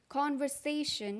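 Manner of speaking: conversation said very slowly with the r sounded; slow American conversation. Shown as a demonstration. Teacher demos the slow American conversation. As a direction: stretch out conversation and keep the r. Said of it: "American में इसको बोलते हैं".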